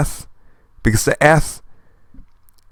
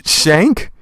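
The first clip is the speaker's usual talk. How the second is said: higher, questioning comic-book sound effect; puzzled sound-effect reading; 4 semitones higher than usual. Acted. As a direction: read the odd effect as a question. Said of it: "What an interesting sound effect".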